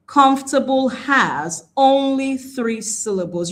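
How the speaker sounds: slow, deliberate repeat with weight on ONLY; emphatic caution. Shown as a demonstration. Teacher repeating a caution to learners, slow and emphatic. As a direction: stretch out "only three syllables" for emphasis. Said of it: "You have to be careful".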